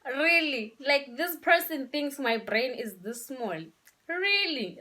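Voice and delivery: indignant, slow-burning incredulity; incredulous. Acted. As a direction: draw it out like you can't believe the insult. Acting out angry disbelief at partner.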